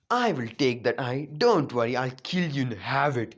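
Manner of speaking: slow, menacing villain voice; Madara. Acted. Madara eyeing Naruto's golden Rinnegan, slow villainous menace.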